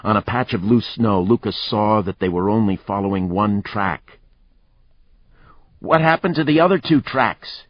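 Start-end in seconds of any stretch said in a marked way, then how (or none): 5.8-7.7 shouted. Acted. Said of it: "he shouted".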